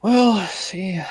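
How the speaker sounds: a whispered, unsure well, see; whispered hesitation. Acted. Lawyer stalling before the client, whispered aside. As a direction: whisper it while stalling for time.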